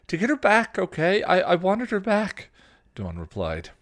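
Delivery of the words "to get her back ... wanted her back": high, loud defensive outburst; heated, raised-voice retort; anger resurfacing. A narrator's reading. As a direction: throw it back angrily. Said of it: "her earlier anger returning".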